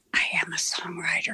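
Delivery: softly, under the breath. Driving home from c n s, saying it to yourself very quietly. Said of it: "I said very quietly".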